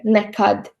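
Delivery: nekad with the stress on kad, the second syllable. Shown as a demonstration. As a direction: lean on kad in nekad for the class. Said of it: "stress on the second syllable is in the word nekad".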